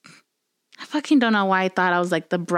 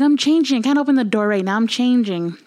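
higher, louder panicked excuse through the door; 4 semitones higher, 4 dB louder than usual. Retold or imitated. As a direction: call out fast, hiding something. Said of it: "I was like".

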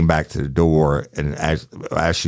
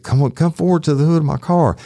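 higher, urgent order at gunpoint; retold command; 12 semitones higher, 4 dB louder, faster than usual. Deputy ordering the armed woman, tense raised command. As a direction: bark it up high and tense.

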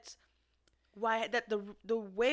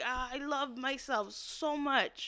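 slow, higher sigh of self-adoration; adoring self-love; 4 semitones higher, slower than usual. Acted. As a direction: gush slowly over yourself. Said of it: "you're gonna be like".

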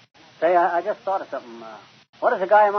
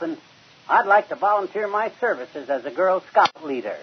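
pompous phone voice; 4 semitones higher than usual. Acted. Fibber grandly introduces himself to scout headquarters, pompously. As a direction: announce yourself like a big shot.

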